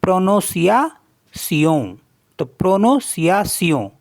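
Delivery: प्रोनोसियासियों built syllable by syllable, nasal end; teacher joining प्रो नो सिया सियों; French pronunciation. Shown as a demonstration. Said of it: "सी आई ए को पढ़ेंगे सिया".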